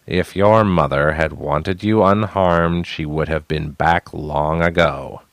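slow, cold, even voice; steady and dead. Acted. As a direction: say it dead level. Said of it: "Harad's voice was steady and dead".

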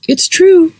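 a small proud bird piping up; chirpy bird. Acted. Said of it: "Pheasant said".

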